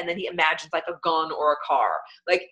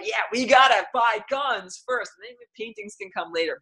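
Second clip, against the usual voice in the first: mocking gun-first voice; 5 semitones higher than usual. Mocking people who value guns, brash mock shout. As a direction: ham up the gun lovers' cry. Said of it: "They're like".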